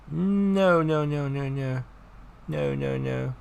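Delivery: high, loud run of no's waving someone off; a figure loudly refusing, no, no, no; person saying no. Pretend. Teacher voices the stroke as a person refusing, loud. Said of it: "it's like a person here and say".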